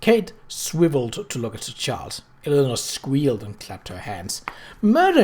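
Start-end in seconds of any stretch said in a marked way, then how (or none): 4.8-5.2 thrilled high squeal of a word; gleeful shriek; delighted cry. Acted. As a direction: burst out with glee. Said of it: "she cried".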